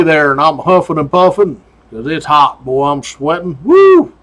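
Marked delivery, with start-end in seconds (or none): 3.6-4.1 a high, loud whoop of exasperation; hot and worn out. Retold or imitated. Trooper worn out by the climb, whooping high and loud. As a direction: blow off the heat with a sudden yelp. Hot, sweating through everything.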